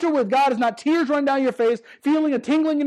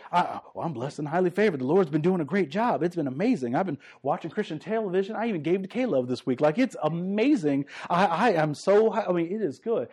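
lower, softer hollow churchy gush; mock fake cheer; 5 semitones lower, 5 dB quieter than usual. Preacher imitating believers faking it at church, mock cheer. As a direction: play the fake blessed believer, a bit laughing. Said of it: "so many times we're just like".

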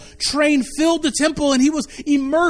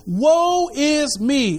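slow lament; 2 semitones higher, much slower than usual. Acted. Reading scripture slowly.

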